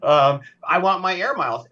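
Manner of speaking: a touch of indignant customer; mock huffy customer denied points. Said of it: "I get a little huffy".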